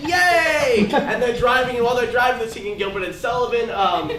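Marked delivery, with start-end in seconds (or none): 0.1-0.9 put-on quoting the kids. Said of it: "And the kids are like".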